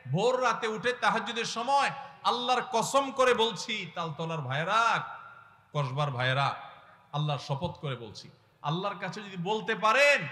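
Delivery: a fiery sermon swearing by God; full-force preaching. Acted. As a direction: preach it out hard to the brothers.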